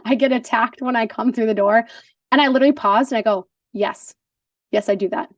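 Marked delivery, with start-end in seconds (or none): 0.0-1.9 gentle husband. Retold or imitated. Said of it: "he did it in a very gentle way".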